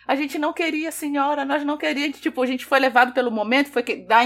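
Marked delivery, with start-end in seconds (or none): 0.1-2.2 mock pleading. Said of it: "ainda vem querer dizer".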